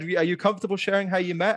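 playful imitation of a chat show host; mock interviewer. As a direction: parody the host's polite question. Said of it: "You said".

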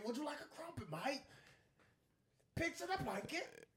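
very high-pitched mock Cockney; hammed-up Cockney caricature, high and loud; horrible Cockney accent. Shown as a demonstration. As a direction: shriek it in a badly faked Cockney accent. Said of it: "It's a very horrible Cockney accent".

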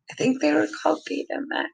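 fast, high, unsure aside; quick aside. Real, not acted. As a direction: rattle it off, doubting.

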